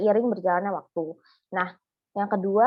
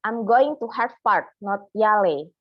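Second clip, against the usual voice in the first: slightly raised, firmly projected example; a touch higher and firmer, as a model sentence; high pitch range; 4 dB louder than usual. Shown as a demonstration. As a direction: give a mild demo of high pitch. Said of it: "nada rentang yang tinggi".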